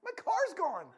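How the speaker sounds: high, loud exclamation; loud, hammed-up alarm; dismayed. Retold dismay at losing car.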